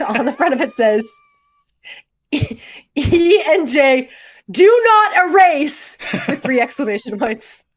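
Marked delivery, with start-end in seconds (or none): 2.3-6.0 slow, rising label read-out, each word hit; louder and slower, climbing to do not erase; dramatic reading. Retold or imitated. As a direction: read it out like a solemn warning.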